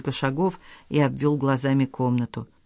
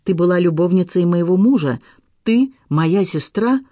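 raised, louder and higher furious accusation; 4 semitones higher, 5 dB louder than usual. A narrator's reading. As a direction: hurl it at her sister in rage, slowing at the end. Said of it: "глазами, полными ярости". (яростно, громко и с надрывом)

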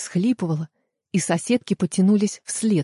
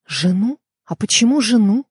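rising, louder shocked question; startled disbelief; 3 semitones higher, 4 dB louder than usual. Acted. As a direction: blurt it out in disbelief. Shocked question about the wife.

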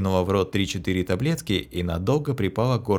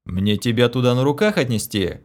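menacing question; 3 semitones higher, 4 dB louder than usual. Acted. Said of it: "грозно поинтересовался я".

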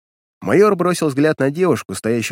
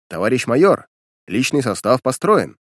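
military report. Acted. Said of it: "доложил".

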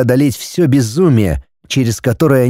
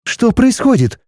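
put-on a young woman's frightened question, pitched up; 11 semitones higher than usual. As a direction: ask it in sudden fear. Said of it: "испуганно произнесла Нелли".

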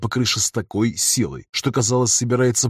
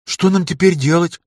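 higher, scared question; a hint of panic in her voice; frightened girl; 7 semitones higher, 5 dB louder than usual. A narrator's reading. Lema asks what to do now, frightened.

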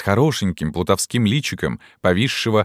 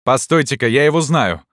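high, raised voice from the crowd; excited exclamation; 7 semitones higher, 4 dB louder than usual. A narrator's reading. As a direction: pipe up on recognizing someone. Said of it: "воскликнул кто-то".

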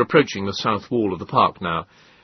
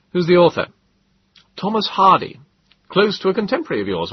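higher, amused scholarly gentleman; Moses's voice; 10 semitones higher than usual. A narrator's reading. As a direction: lift the voice for a wry, quoting friend.

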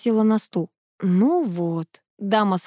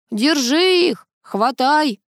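a crow's raised cawing cry; 6 semitones higher, much slower than usual. A narrator's reading. Hector the crow urges the dogs on, cawing. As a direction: caw the orders out like a bird. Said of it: "закаркал ворон Гектор".

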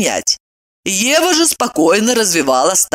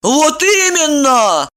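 indignant; 9 semitones higher, slower than usual. A narrator's reading. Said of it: "негодуя воскликнула Ева".

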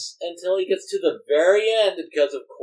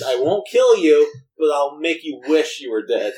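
mild Batman growl; 4 semitones lower than usual. Retold or imitated. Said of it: "Batman's whole philosophy is".

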